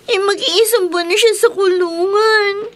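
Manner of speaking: tearful, sobbing through words; crying child. Acted. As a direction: speak while crying. (umiiyak na bata)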